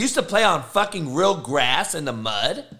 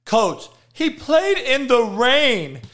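slow, higher mock whine of "played in the rain"; mocking excuse; 4 semitones higher, slower than usual. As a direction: parrot the lame excuse, drawn out. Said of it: "That is a fucking excuse".

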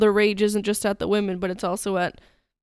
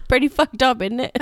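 joking British "innit"; lightly put-on British accent, amused; mock British accent. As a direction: play along in a jokey British accent. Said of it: "had a British or a Canadian accent".

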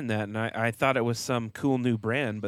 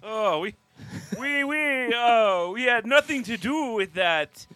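high, pleading fake French protest; mock French denial; 9 semitones higher, 4 dB louder, slower than usual. France's mock denial to host, high and hammed-up. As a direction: play innocent in a hammed-up French voice.

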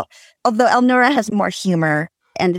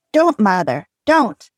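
screamed wildly; 2 semitones higher than usual. Acted. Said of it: "The girl screamed wildly".

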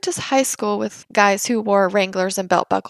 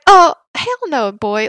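mock Texan; 3 semitones higher, 5 dB louder than usual. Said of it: "I was like".

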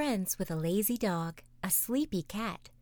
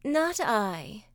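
sleepy cat purring; 3 semitones higher, 4 dB louder than usual. Acted. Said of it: "purred the sleepy cat".

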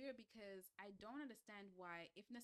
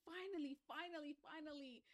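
excited; 8 semitones higher, 4 dB louder than usual. Retold or imitated. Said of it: "I said".

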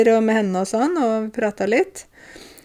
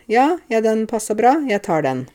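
satisfied male shopper; 4 semitones higher than usual. Retold or imitated. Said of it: "Så går de og prøver".

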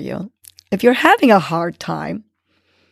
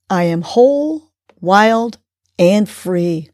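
affirmation; slower than usual. Shown as a demonstration. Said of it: "Today's nudge is".

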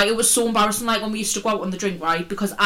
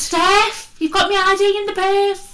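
high, loud squeaky voice mimicking Jade; mock squeaky friend; 12 semitones higher, 5 dB louder, slower than usual. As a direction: squeak it out like a panicked little friend. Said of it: "She's like".

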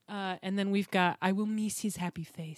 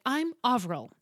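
imitating an Irish woman's introduction; name said with a light Irish accent; Irish classmate; 4 semitones higher, 4 dB louder than usual. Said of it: "was Irish and very cool".

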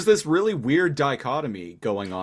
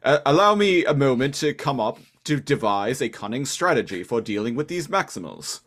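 mock Inferno; 2 semitones higher than usual. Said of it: "we're poking fun at the".

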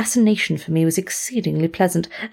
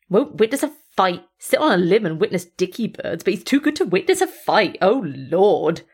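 mild scorn. Acted. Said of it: "intense scorn".

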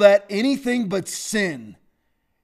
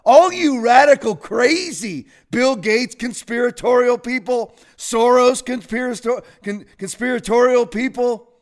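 raised mocking tirade; 4 semitones higher, 4 dB louder than usual. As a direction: sneer at the critics. Mocking conspiracy critics.

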